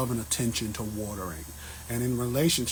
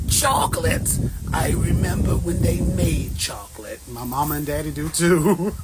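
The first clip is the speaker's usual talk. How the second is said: laughing while talking; 4 semitones higher, 6 dB louder than usual. Real, not acted. Joking through laughter.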